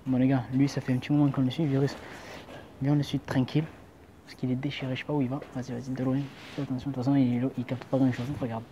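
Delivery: hushed voice while sneaking behind; quiet. Real, not acted. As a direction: keep it low so he won't hear. Hiding while tailing a drunk man. (à voix basse)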